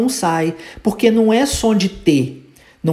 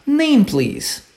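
native phrasing demo; 6 semitones higher than usual. Shown as a demonstration. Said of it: "vai falar".

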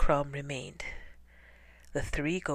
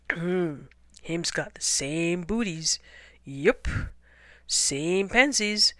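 dim hunter; 3 semitones higher, 4 dB louder than usual. Acted.

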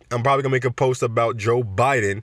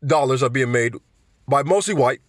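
put-on Bernie accent; 3 semitones higher than usual. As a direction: read the campaign email as a fired-up Bernie. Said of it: "I can't even do the accent".

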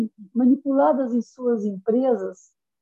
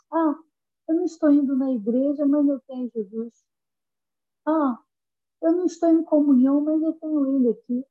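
lightly raised, quick mock excuse; mocking a lukewarm believer; 5 semitones higher, faster than usual. To the congregation, mocking a stray believer, lightly raised. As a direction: brush it off like a careless churchgoer. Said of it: "no sentido de".

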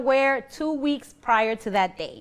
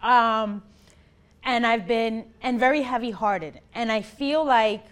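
snotty crying; 2 semitones higher, 3 dB louder than usual. Real, not acted. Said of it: "now I'm crying, I ugly cry".

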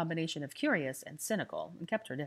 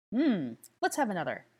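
gruff lout; 4 semitones higher, 5 dB louder than usual. A narrator's reading. Flint demands more.

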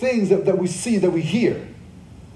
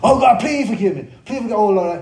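higher, whiny imitation of a sinner begging; mock pleading; 4 semitones higher than usual. Preacher mimicking people begging God for forgiveness, mock pleading. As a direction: ham up a desperate plea for forgiveness. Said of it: "begging God to forgive you".

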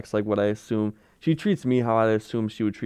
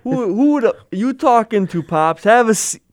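much higher and louder, mock-outraged little boss; bossy kid; 11 semitones higher, 7 dB louder, slower than usual. Son scolding his dad to sit down, high squeaky boss. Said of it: "He's like".

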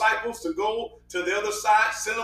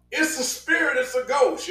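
higher-pitched mock cry of alarm; a quick, raised-pitch retold cry; retold outcry; 4 semitones higher than usual. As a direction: imitate startled men crying out, without full volume. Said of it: "they all cried out".

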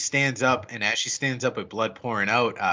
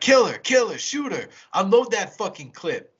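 frantic shout; 7 semitones higher, 4 dB louder than usual. Retold or imitated. Frantic order to shoot.

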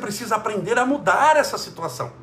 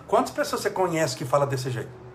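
ordinary talk

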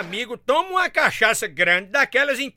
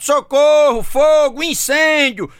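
loud, higher cry for help; desperate shout; 4 semitones higher, 5 dB louder, much slower than usual. Acted. Man in the cesspit shouting to the neighbours for help, loud and desperate. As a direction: yell for help from the bottom of the pit. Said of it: "grita desesperado".

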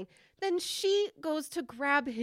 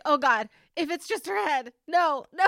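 louder, dreading plea; mock horror; 4 semitones higher, 6 dB louder than usual. Watcher dreading the severed head reveal, mock horror. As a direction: retell the panic, mock-horrified. Retelling horrified reaction to film scene.

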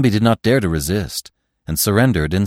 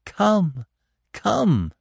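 tender, longing call; 11 semitones higher than usual. A narrator's reading. Doe calling to Bambi from afar, high and tender. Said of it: "tender and full of longing".

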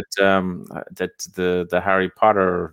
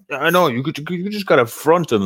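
higher Australian accent impression of a mate; mock Aussie; 9 semitones higher than usual. Teller imitating his Australian friend Dane, mock Aussie accent. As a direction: lightly do Dane's Aussie accent, up in pitch. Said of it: "'cause he's such a fucking Aussie".

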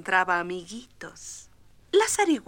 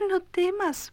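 reassuring; 8 semitones higher than usual. Acted. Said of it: "dijo su mamá".

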